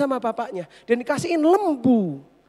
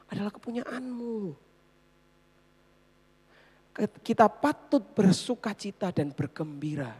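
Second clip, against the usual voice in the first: tender father; 6 semitones lower, 4 dB quieter than usual. Acted. Father gently answers his son.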